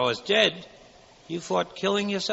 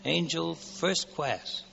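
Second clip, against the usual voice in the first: tag only; 5 dB quieter, much slower than usual. Acted. Angel dreaming aloud.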